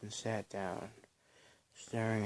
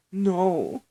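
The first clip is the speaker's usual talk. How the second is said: high, loud defiant shout; one sharp furious scream; 9 semitones higher, 11 dB louder than usual. A narrator's reading. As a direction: yell it as you hurl the rock. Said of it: "Belle screamed as she threw a rock".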